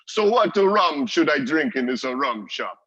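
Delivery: loud, high-pitched mock Jamaican accent; booming Jamaican accent. Customer calls over bartender's shoulder, booming Jamaican accent. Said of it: "booming Jamaican accent come over my shoulders".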